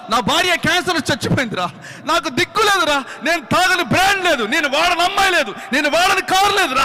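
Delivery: building from a plain confession to a loud, high wail; a broken man ranting his guilt, rising to a cry; drunk friend's tearful rant. Retold or imitated. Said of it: "అని ఏడుస్తా ఉన్నాడు".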